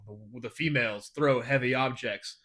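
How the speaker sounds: low, slow Klingon voice; slow, grave, like Worf; solemn Klingon. Retold or imitated. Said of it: "his dialogue is like".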